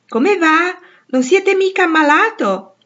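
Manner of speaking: high, loud call up to the window. A narrator's reading. Joe calling up to the sick boy at the window, loud and high. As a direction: shout it cheerfully up to the window, slow.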